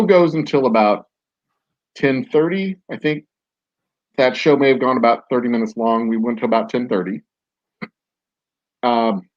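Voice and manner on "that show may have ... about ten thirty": talking through hiccups; hiccuping between words. Real, not acted. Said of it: "Are you hiccuping?".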